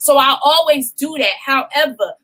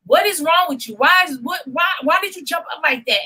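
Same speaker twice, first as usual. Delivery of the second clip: put-on girlfriend demanding; 4 semitones higher than usual. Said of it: "she like".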